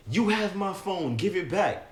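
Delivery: high-pitched imitation of an outraged accuser; retold screaming demand. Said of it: "screaming the whole place down".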